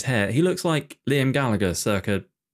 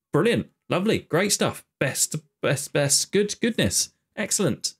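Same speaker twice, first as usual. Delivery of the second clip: sarcastic praise; 4 semitones higher than usual. Real, not acted. Sarcastic praise after bad play.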